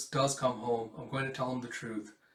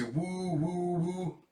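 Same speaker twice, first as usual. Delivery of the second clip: cheering; 5 semitones higher, much slower than usual. Acted. Boy cheering with the fish.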